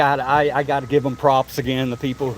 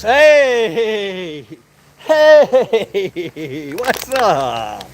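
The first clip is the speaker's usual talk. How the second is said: louder, higher calls to the goats; calling out; 5 semitones higher, 4 dB louder, much slower than usual. Real, not acted. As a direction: call the goats over.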